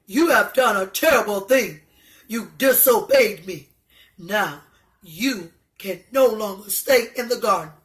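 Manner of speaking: stern God. Acted. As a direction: pronounce the sentence like a disappointed judge. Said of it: "He said".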